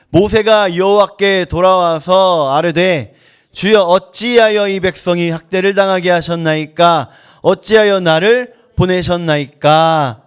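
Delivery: slow, measured recitation of a verse; deliberate, drawn-out Bible reading; scripture reading. Acted. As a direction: read the verse out for a congregation to follow. Reads the Bible verse aloud.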